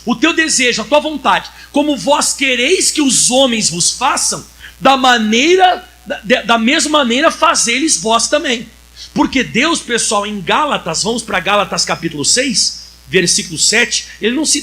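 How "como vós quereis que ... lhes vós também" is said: slow, louder, drawn-out Bible verse; solemn scripture reading. Acted. Preacher reading Jesus's words to the congregation, slow and loud. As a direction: proclaim each word of the verse slowly.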